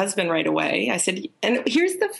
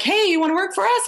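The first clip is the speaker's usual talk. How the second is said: quoting them; 12 semitones higher than usual. Retold or imitated. Retold job offer, high voice.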